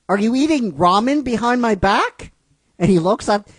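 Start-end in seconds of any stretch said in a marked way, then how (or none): 0.1-2.3 Pikachu voice. Acted.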